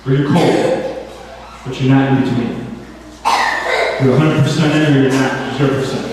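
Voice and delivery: low-pitched talking cat voice; low cat mentor with pauses; Bulldog. Acted. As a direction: lecture as a wise cat, low. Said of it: "so Bulldog said".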